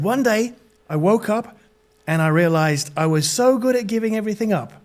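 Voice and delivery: put-on American storyteller; lightly acted American accent. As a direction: imitate an American stranger confessing. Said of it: "this is my American accent".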